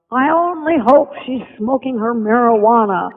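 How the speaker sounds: lightly imitating his elegant, drawn-out delivery. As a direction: stretch each word out like a refined gentleman. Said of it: "drawn out in his elegant voice".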